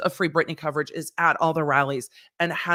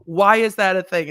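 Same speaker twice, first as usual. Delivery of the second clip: exasperated; 3 semitones higher, 6 dB louder than usual. Retold or imitated. Repeats quote louder.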